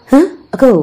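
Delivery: sudden high-pitched surprise; startled surprise. Acted. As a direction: blurt it out, caught by surprise. Startled on seeing men emerge.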